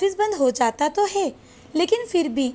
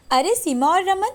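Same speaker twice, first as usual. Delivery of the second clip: sneering, higher-pitched taunt; mocking taunt; 5 semitones higher than usual. Rich wife taunting poor relatives outside the mall, higher, mocking. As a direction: look down on them with a mocking lilt. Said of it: "नीचा दिखाने के लिए मिलने जाती है".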